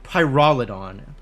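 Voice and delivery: "Pyrolidon" said slowly as PYE-ROL-ih-don; careful pronunciation. Shown as a demonstration. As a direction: sound out "Pyrolidon" syllable by syllable. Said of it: "Is that what they're calling it?".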